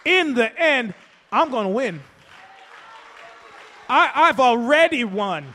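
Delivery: fervent pulpit cadence with repeated lines; preaching. Acted. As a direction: build it up like a pastor's closing climax. Building sermon climax.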